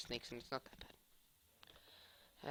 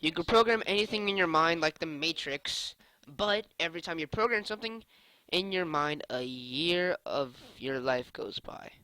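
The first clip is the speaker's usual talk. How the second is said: loud reading; 11 dB louder than usual. Real, not acted. Reading a dare card aloud.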